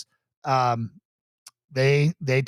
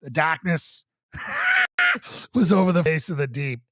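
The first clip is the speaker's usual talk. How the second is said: put-on Boston accent. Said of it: "the Boston special".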